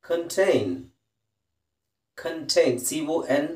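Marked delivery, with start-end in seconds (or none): 0.0-0.7 contain with a short kun first syllable, kun-TAIN; contain said clearly. Shown as a demonstration. Teacher modelling contain for Kannada students, kən-tain. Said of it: "ಕನ್ ಅಂತ ಹೇಳ್ಬೇಕು". 2.2-2.7 Contain repeated as kən-tain; pron. Shown as a demonstration. Teacher repeating Contain for the class, clearly. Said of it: "ಕಾನ್ ಅಂತ ಕೆಲವು ಕಡೆ ಬರುತ್ತೆ".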